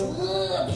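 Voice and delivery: grunt. Retold or imitated. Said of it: "a man goes".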